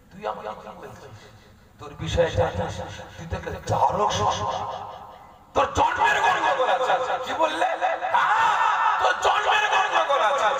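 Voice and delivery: building to a high shout; angry confrontation. Acted. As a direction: rise to a furious shout. Prophet voiced confronting the man. (রাগে চড়া চিৎকার)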